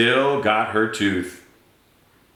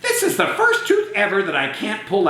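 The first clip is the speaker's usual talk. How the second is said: laughing; 9 semitones higher than usual. Acted. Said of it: "said the tooth fairy".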